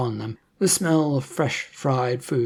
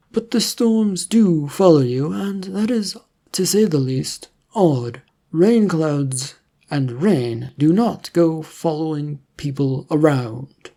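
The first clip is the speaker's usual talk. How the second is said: firm government agent; 3 semitones higher, 4 dB louder than usual. Acted. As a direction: make the point slowly and firmly. Agent insists, deliberate.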